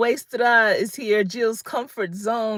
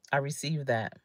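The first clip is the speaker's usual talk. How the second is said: softer, lower echo of the phrase; softer repeat; 5 semitones lower, 7 dB quieter than usual. Shown as a demonstration. Accepting a compliment, softly to herself. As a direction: let it sink in, quietly. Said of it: "I say".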